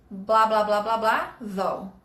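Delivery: falling though at the end. Shown as a demonstration. Teacher showing where though goes, falling at the end. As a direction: drop your voice on the final though. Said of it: "Lá no final".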